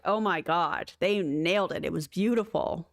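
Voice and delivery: sarcastic. Retold or imitated.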